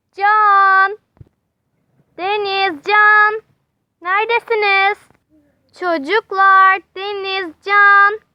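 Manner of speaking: shouting names across the park; calling out. Acted. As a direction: call their names into the distance. Teacher calls lost children.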